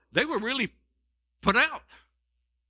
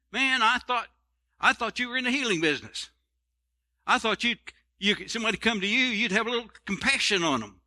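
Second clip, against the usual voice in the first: indignant mother; 5 semitones higher than usual. Retold or imitated. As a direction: play the offended mother demanding help. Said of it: "she should say".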